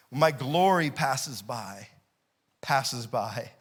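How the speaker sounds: slow, low, solemn; slow solemn God voice. Retold or imitated. Preacher voicing God slowly to the congregation. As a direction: draw out each word like God speaking. God's words read slowly.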